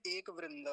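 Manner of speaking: एक वृंद with एक closed as ek; halant-style demo. Shown as a demonstration. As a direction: drop the a after k in एक. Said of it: "इसको एक बोलते".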